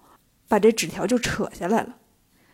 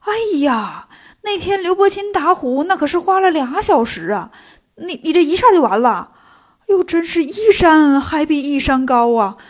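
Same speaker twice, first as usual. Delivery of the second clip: astonished exclamation; 3 semitones higher, 4 dB louder than usual. Acted. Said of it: "惊叫着说".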